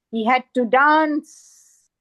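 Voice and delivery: slow, drawn-out DANCE in recitation; emphatic poetic refrain. Acted. Poet repeats the dancer's plight, emphatic slow recitation. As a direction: stretch out "dance" with weight. Repeated line, said with more weight.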